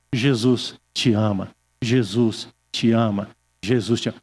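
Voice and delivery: low, slow and measured; slow, solemn repetition. Retold or imitated. Cleaner to her weeping employer, solemn repetition. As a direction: repeat it slowly, low, phrase by phrase. Retold simple words to weeping woman.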